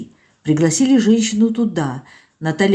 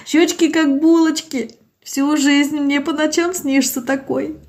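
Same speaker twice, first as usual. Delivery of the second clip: put-on higher, plaintive old woman pleading; tearful old village woman; 6 semitones higher than usual. Old Zinaida to doctor Olga, plaintive and tearful. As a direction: voice an old woman close to tears.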